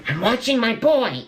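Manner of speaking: imitating mom, thrilled and high; proud excited mom. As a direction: gush like a proud mother watching her son. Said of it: "she's kind of like".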